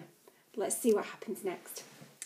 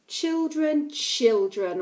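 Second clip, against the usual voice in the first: shouting; 5 semitones higher, 4 dB louder, much slower than usual. Acted. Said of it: "Uncle Edward shouted".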